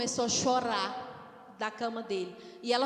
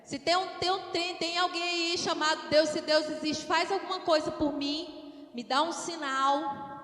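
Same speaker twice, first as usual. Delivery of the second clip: higher-pitched bargaining prayer, slowing at the end; imploring, raised in pitch; acted plea; 5 semitones higher than usual. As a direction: plead for a sign from above.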